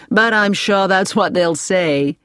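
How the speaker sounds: slow, deliberate cheerful delivery; a knowing, cheerful reassurance. A narrator's reading. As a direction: say it slowly with good cheer. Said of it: "Andy Peters smiled cheerfully".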